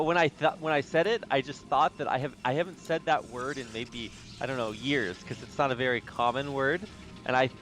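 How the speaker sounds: usual speaking voice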